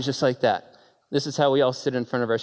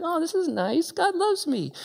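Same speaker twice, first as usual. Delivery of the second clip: much higher, soft, pleased sing-song; smug Jonah; 13 semitones higher, 3 dB quieter than usual. Acted. Preacher mocking Jonah pleased with his shade plant. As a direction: coo it like a smug, self-satisfied prophet. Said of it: "He's like".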